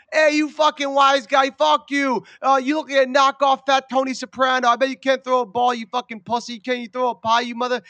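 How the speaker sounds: loud wise-guy taunts, tough-guy Italian swagger; mock gangster heckling. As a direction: heckle them like a mob tough. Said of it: "yelling at people".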